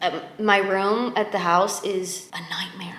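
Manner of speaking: unvoiced whisper, hushed. Real, not acted. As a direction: whisper it like a secret. Whispering aside in apartment.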